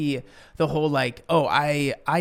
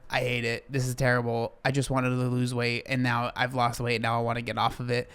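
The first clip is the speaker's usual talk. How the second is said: mock whiny complaint; 3 semitones lower, 4 dB quieter than usual. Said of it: "and now we're".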